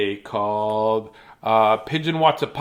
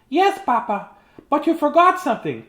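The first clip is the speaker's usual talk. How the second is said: high, eager little chick; little chicken voice; 12 semitones higher than usual. Acted. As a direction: chirp it up high like a small chick. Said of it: "said Papa".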